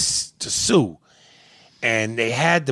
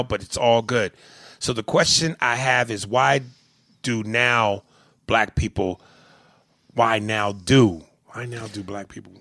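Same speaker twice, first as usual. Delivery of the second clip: Asian accent. Shown as a demonstration. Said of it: "do it in that Asian voice again".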